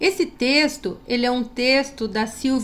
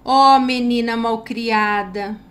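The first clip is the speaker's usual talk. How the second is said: louder, slower mock telling-off; mock scolding; 6 dB louder, slower than usual. Shown as a demonstration. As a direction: scold the rude girl, exaggerated for the class. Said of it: "Ponto de exclamação".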